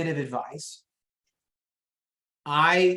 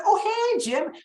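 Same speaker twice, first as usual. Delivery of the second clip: high, sing-song "oh hey"; mock sweet rival agent; smug rival greeting; 3 dB louder than usual. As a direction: chirp it like a cheerful rival who just won. Rival agent greets him, pleased.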